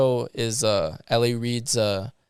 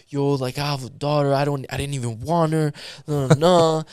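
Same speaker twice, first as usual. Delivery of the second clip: imitating an oversharing producer; mock venting that tumbles into "nah, nah"; retold personal rant; 3 semitones higher than usual. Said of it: "he starts getting so personal".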